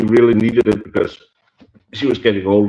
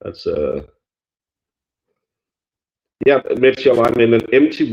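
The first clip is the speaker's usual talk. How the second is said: in a small room; 2 semitones higher than usual. Real, not acted. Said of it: "that's why I sound really roomy".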